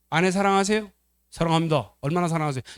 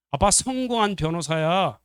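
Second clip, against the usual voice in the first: higher, slow, emphatic acted protest; indignant boast; 4 semitones higher, slower than usual. Son insists Dad is a successful lawyer, indignant. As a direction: insist on it, offended. Unloving son's retort, contrasted later.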